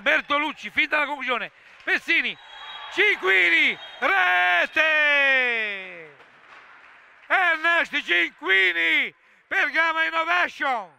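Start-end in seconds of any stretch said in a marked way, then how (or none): 1.8-10.9 rising excited goal commentary; goal call. Real, not acted. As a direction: build to the goal shout.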